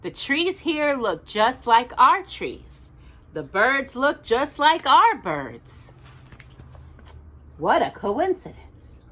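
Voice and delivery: Little Bear voice. Acted. Reading to Jocelyn, Little Bear marvels at the moon.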